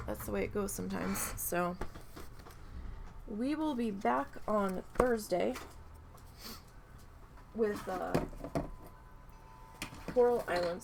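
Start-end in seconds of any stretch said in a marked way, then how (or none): 3.3-10.8 talking through a held-in sneeze; holding back a sneeze. Real, not acted. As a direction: fight off a sneeze while speaking. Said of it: "Sorry, I'm trying not to sneeze".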